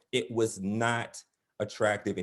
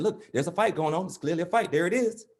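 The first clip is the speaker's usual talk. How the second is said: excited onlooker dad; 4 semitones higher than usual. Acted. Dad excitedly points out fight.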